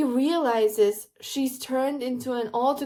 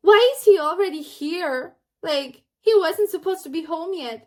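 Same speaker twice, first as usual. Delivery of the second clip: higher, louder protest; mock indignant sister; 5 semitones higher, 5 dB louder than usual. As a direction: imitate a sister complaining to her brother. Sister protests friend being home early.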